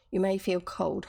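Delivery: You may feel cold, with "may" leaned on; stress on may. Shown as a demonstration. Rereading the Cuckoo's line, stressing "may". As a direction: weigh the word "may" as a possibility. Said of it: "He's not necessarily talking about now".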